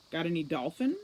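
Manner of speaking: sarcastic. Acted. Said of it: "Holly asked sarcastically".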